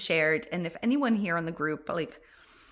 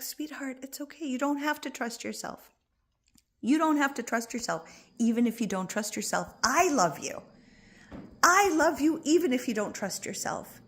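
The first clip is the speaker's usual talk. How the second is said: tender reassurance; 5 semitones higher than usual. Pretend. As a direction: soothe a scared child. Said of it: "all you're gonna do is like".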